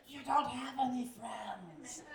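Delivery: high, slow, hissing creature voice; Gollum voice. Retold or imitated. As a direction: creep the words out like a jealous little cave creature. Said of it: "It sounds like fucking Gollum".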